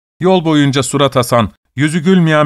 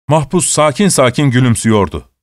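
ordinary delivery

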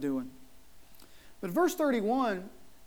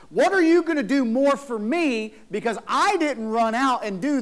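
whining; 4 dB louder than usual. Retold or imitated. Pastor mimics the older brother whining to his father, mock whiny. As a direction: pout it out like a sulking older son. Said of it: "he immediately starts to whine".

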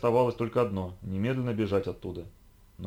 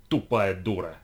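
spat contemptuously; 2 semitones lower, 3 dB louder, slower than usual. Acted. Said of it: "сплюнул Арзу".

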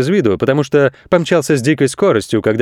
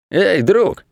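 a sly crook's call, higher; crooks calling out; 7 semitones higher than usual. Acted. Crooks luring the goat aside, sly call. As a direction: hail him like a shady pal. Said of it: "позвали они".

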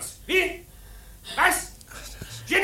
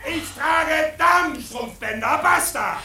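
lauter betrunkener Streit. Acted. Betrunkener Bräutigam streitet laut.

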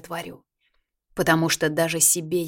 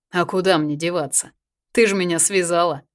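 насмешливо; 5 dB louder than usual. Acted. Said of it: "насмешливо ответил ей Марк".

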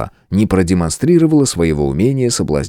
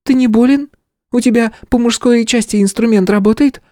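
sly teasing; 3 dB louder than usual. Acted. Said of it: "прищурилась внучка губернатора".

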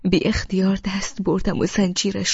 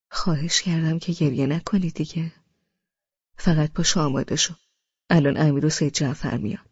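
lovingly gentle; 4 semitones lower than usual. Acted. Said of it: "با همان لحن دوست داشتنی گفت".

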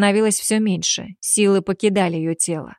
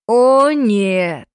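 louder, ominous "oh no"; sinister; 3 semitones higher, 4 dB louder than usual. A narrator's reading. Alpha revealing his plan for the girl, sinister tone. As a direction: let menace creep into it. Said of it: "зловещая нотка".

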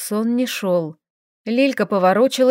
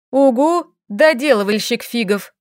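hissing; 3 dB louder than usual. Acted. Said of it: "шипела Лилька".

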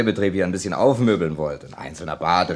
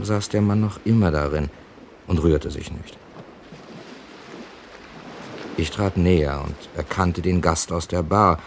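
story narration. A narrator's reading. First-person narration between scenes.

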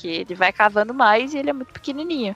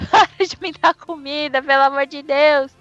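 a milder pleading yell; 2 semitones higher than usual. Retold or imitated. Thumb begs from inside the cow, milder and pleading. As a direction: beg rather than scream. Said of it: "tá a vaca gritando".

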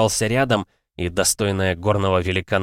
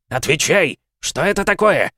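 high, loud furious demand; 9 semitones higher, 5 dB louder than usual. A narrator's reading. Father demanding answer from guest, furious shout.

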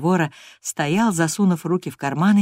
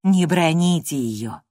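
pleading gently; slower than usual. Acted. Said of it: "вступилась служанка".

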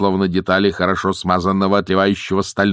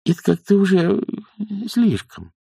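lightly voiced higher nanny; objecting nanny; 13 semitones higher than usual. Nanny restrains the bossy witch, mildly objecting. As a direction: object with a high start, hesitating.

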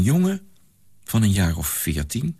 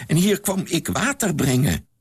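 a hint of a weary old man; 8 semitones higher than usual. A narrator's reading. (licht gespeelde oude man, traag)

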